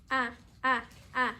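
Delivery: short, separate "A" sounds; teacher modelling a short "a"; isolated letter sound. Shown as a demonstration. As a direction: say "a" alone, short and evenly spaced. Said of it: "los sonidos".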